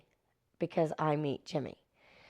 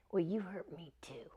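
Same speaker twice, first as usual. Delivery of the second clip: pointed retort; 7 dB quieter than usual. Retold or imitated. Quieter payback line to co-star.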